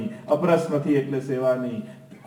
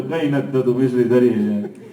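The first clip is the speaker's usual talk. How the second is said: imitating a reluctant devotee, half-laughing; a devotee grumbling over the sugar offering, in mock reluctance; mock grudging offering; 3 semitones lower than usual. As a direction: sigh it off like a begrudging chore. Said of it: "રડતા રડતા નહીં ધરો".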